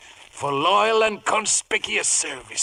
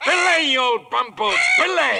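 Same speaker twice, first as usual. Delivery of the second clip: scolding shout; 6 semitones higher, 4 dB louder than usual. Acted. Silver scolds the swearing parrot.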